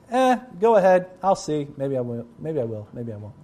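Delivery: lightly voiced careless parent who won't follow through; noncommittal shrug. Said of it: "the opposite being".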